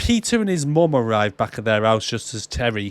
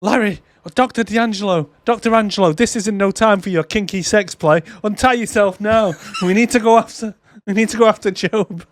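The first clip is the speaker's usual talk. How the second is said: urgent, high; 6 semitones higher than usual. Retold or imitated. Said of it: "He goes".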